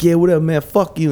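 high-pitched imitation of an angry man; retold irritated comeback; mock dismissive anger. Retold quarrel in the shop.

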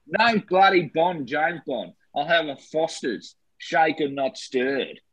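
Australian Lazenby voice snapping back; Australian Lazenby voice ordering a Foster's; Australian accent. Retold or imitated. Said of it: "Sorry, he's gone".

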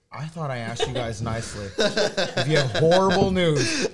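drawn-out, pointed reproach, leaning on horrible news; slow, pointed complaint. Retold or imitated. Telling off relatives who brought bad news, slow and pointed. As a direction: stretch it out slowly, as if spelling out a grievance.

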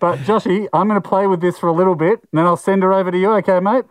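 muffled behind a rubber mask; talking through mask. Real, not acted. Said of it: "It's hard to hear you with the mask on".

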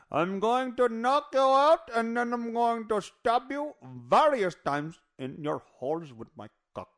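a crude put-on Indian accent; doctor doing a mocking Indian accent. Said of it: "That means he's an Indian".

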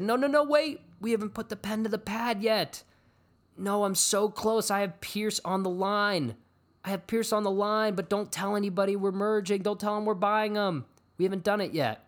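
anxious, strained high-pitched imitation; mock panicked plea. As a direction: plead it in an exaggerated high voice. Retells Drew's panicked plea to group.

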